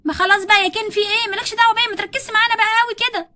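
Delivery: Barbie snaps at Ken, irritated; irritated retort. Acted. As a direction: tell Ken to leave her alone.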